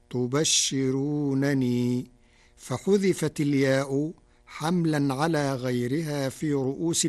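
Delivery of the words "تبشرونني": تبشرونني said very slowly with both نون sounded; full form. Shown as a demonstration. Teacher showing listeners the underlying word, slow spelling-out. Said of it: "فتكون هكذا".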